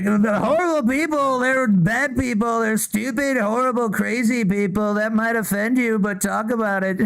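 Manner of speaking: hammed-up name-calling like Trump; Trump impression. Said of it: "Trump's like".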